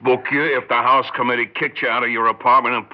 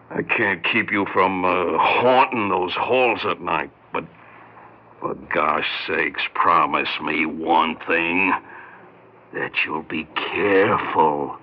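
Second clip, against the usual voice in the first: earnest slow plea; 4 semitones lower, slower than usual. Acted.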